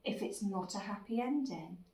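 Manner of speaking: tender, gently lilting comfort; soothing mummy. Acted. Mummy comforts her little Worrysaurus, soothing. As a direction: ease off and reassure a worried little one.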